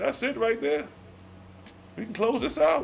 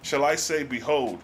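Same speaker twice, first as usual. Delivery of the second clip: solemn scripture reading; 3 semitones lower than usual. Acted. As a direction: read the old words like a solemn sermon. Reads God's archaic reply.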